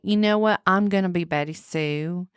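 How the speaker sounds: lightly hammed country twang; mock country accent. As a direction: introduce yourself in pretend country. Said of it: "we're just gonna be country".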